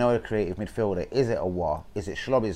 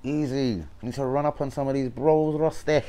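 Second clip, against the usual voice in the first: put-on Jamaican accent; 4 semitones higher than usual. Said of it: "I'm trying to be Jamaican".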